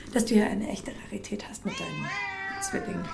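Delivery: telling her about the twin cats in a whisper. Acted. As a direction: lean in and whisper it. Sharing a secret about cats.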